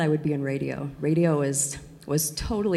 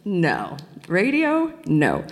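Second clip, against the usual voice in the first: incredulous; much slower than usual. Retold or imitated. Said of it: "I remember thinking".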